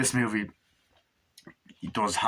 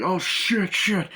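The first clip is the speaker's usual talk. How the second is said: mock alarm; 8 semitones higher, 3 dB louder, much slower than usual. Acting out being shot at.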